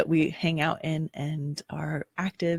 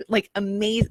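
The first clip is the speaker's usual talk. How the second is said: goofy; 3 semitones higher than usual. Acted. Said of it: "I say that goofily".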